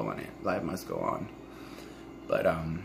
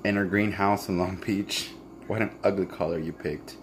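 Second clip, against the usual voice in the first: reading a letter; 2 semitones lower than usual. Acted. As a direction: read it like a private love letter. Reads her letter aloud.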